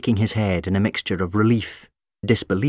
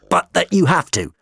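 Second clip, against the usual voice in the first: high alarmed doctor; 10 semitones higher, 4 dB louder than usual. Acted. Doctor pressing the monster.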